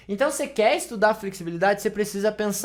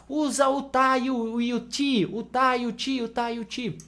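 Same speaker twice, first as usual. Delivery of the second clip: teacher's voice; 5 semitones higher than usual. Acted. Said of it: "um professor falando pra vocês".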